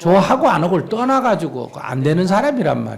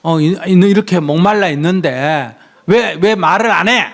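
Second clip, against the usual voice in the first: mock confrontation, pressing harder toward the end; confronting demand; 2 semitones higher, 3 dB louder than usual. Shown as a demonstration. Monk models pressing a silent boyfriend about marriage, confronting demand. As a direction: demand to know why, voice lifting on the last words. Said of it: "이렇게 따지는 게 낫겠어".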